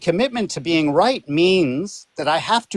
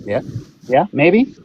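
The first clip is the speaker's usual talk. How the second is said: in a swimming pool. Real, not acted. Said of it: "She sounds like she's in a swimming pool".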